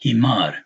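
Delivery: "Himar" with a long aa after the m; elongated fatha. Shown as a demonstration. Teaching the aleph over meem, long vowel. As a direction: stretch the second vowel of "Himar". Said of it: "elongating the fatha over this meme".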